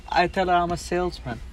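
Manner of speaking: Robert De Niro impression. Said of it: "Robert De Niro says".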